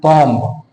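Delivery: बॉम्ब with a b released after the m; wrong B sounded. Shown as a demonstration. Teacher warning students off this reading, b sounded. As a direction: let the b pop at the end of बॉम्ब. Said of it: "ना कि बॉम्ब".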